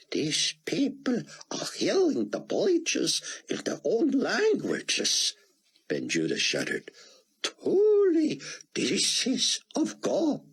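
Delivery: high, slow voice shaking with awe; trembling awe. Acted. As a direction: breathe it out, overwhelmed by a miracle. Rabbi awed by the miracle.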